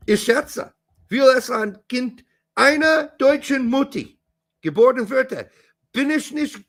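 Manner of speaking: American-accented German. Real, not acted. Host attempting German about an American father, American accent. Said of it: "my horrible Deutsch accent".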